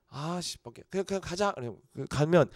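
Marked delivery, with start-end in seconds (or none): 0.1-1.5 much softer, annoyed mutter; grudging acceptance. Retold or imitated. Answering the pastor's lunch offer, softly annoyed. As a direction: accept the meal invite unwillingly.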